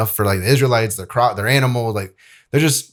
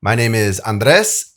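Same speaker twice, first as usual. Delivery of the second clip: slower, deliberate re-introduction of the name Andres; slower retake; slower than usual. Shown as a demonstration. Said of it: "Hey guys".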